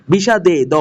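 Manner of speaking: বিষাদে followed by its last sound echoed alone; last syllable isolated. Shown as a demonstration. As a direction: sound out the ending of বিষাদে for students. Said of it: "এখানে মুক্তাক্ষর".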